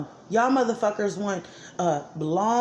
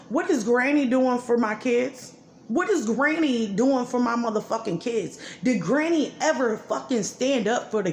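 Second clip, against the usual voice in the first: angry demand; 3 semitones higher than usual. Real, not acted. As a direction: demand it, furious. Angry rant about granny.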